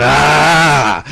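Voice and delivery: imitated war cry. Dad imitating his son terrorizing the neighbors, mild mock yell. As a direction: imitate a kid's long "aah" at half volume. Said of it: "running around going".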